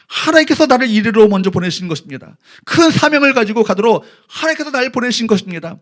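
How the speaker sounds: usual speaking voice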